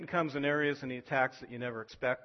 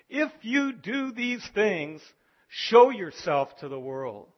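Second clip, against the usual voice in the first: mocking brothers; 6 semitones higher, 9 dB louder, slower than usual. Brothers taunting Jesus in scripture.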